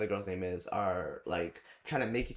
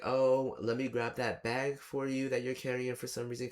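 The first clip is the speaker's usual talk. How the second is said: imitating the boyfriend; 3 semitones higher than usual. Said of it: "he's like".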